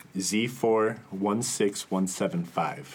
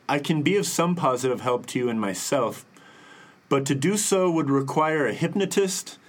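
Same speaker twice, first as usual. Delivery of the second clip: lightly voiced eccentric letter writer, pitched up; Carlos Allende; 4 semitones higher than usual. Host reads a crackpot's letter to co-hosts, lightly put-on voice. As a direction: read it higher, kind of yelling, accentuated. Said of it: "Is that your Carlos Allende voice?".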